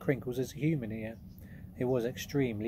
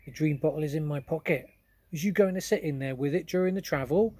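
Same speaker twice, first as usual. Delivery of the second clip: higher, louder kindly giant asking; friendly giant; 4 semitones higher, 5 dB louder than usual. Acted. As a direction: ask her gently as the big giant. BFG asks Sophie.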